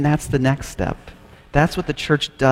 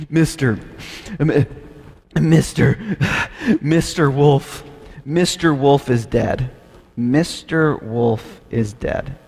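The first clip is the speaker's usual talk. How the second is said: put-on sobbing boy; slower than usual. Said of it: "the crying and the sobbing".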